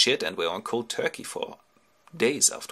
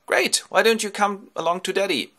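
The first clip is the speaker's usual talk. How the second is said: put-on high girlish invitation; eager girl; 11 semitones higher, 4 dB louder than usual. Nausicaa invites Ulysses home, high girlish voice. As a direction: invite him in a high, keen voice. Princess invites the stranger, acted.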